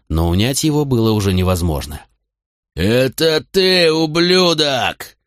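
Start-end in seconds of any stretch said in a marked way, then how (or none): 2.7-5.2 furious roar. A narrator's reading. Drunk son lunging at his mother's lover, furious roar. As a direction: roar the accusation with everything. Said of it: "заорал он во всю глотку".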